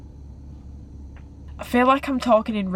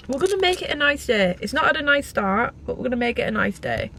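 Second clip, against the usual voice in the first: self pep talk; 5 semitones higher than usual. Real, not acted. Pep talk after a bad start.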